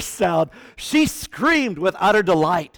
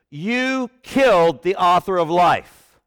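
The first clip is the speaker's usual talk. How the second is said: bold preaching; 4 dB louder, slower than usual. Acted. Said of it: "That's bold preaching".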